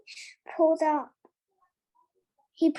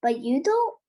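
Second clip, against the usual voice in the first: sharply; 5 dB louder than usual. Acted. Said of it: "said Mister Ollivander sharply".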